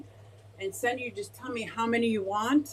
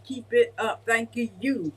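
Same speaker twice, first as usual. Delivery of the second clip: a bright, louder cheer of encouragement, repeated; cheery sticker voice; 5 dB louder, slower than usual. Retold or imitated. Voicing the sticker for the chat, a louder mock cheer. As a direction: cheer it on like a peppy exercising pear. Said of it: "and it's saying".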